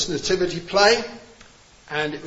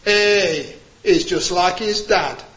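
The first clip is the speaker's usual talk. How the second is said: put-on a light touch of a broad Yorkshire accent, a bit louder; the little shepherd boy blurts it in broad Yorkshire accent; 5 dB louder, slower than usual. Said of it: "in his nice broad Yorkshire accent".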